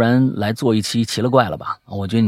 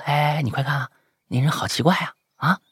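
quietly to a friend; 4 semitones higher, 6 dB quieter than usual. Retold or imitated. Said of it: "我就小声对朋友说".

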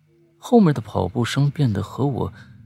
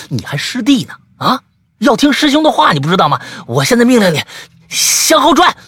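又高又响地喊命令; 虚张声势地下令; 吓慌的命令; 14 semitones higher, 9 dB louder than usual. Acted. 师兄摆架子命令. (师兄大声命令小白向后转，虚张声势)

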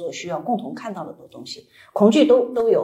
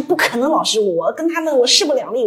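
imitated client protest; 5 semitones higher, 3 dB louder than usual. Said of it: "你说".

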